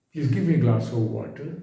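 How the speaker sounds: slow, gentle polite asking; very gentle request. Shown as a demonstration. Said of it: "your tone should be very gentle". (धीमी, बहुत नरम विनती)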